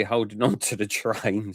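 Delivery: real suppressed laugh while talking. Real, not acted. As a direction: let a small laugh slip into the words. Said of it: "Sorry, I shouldn't laugh".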